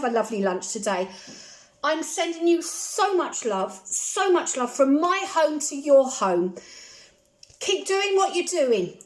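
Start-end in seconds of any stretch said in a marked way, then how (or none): 1.8-9.0 warm sign-off. Real, not acted.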